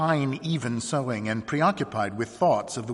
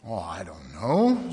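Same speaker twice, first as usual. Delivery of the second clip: dismissive; 4 semitones lower than usual. A narrator's reading. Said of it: "as if dismissing a thing".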